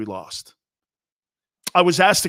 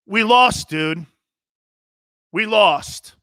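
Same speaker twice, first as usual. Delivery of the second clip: higher, more heated raised-voice retort; voice rising; 5 semitones higher, much slower than usual. Retold or imitated. Player cutting off a reporter's praise, voice raised. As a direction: re-enact losing patience, pitch jumping up. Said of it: "I started raising my voice".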